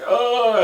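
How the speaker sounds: high, loud sudden gasp; a sharp cry as he is hit; mock death gasp. Spaceman killed, blood in visor.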